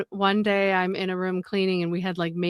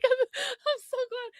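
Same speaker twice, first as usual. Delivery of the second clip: high, slow mock glad; sarcastic relief. Worker answers coworkers' shrug with fake relief. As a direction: drawl it out, fake-pleased. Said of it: "And I was like".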